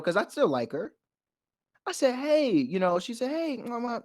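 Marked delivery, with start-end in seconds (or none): 2.2-2.5 easy, higher-pitched "hey"; peaceful greeting. Retold or imitated. Approaching the girl he still likes, peaceful. 3.3-4.0 high, soft mock-cute hello; cute girlish greeting. Retelling how she greeted him, cute. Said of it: "you know, a little cute".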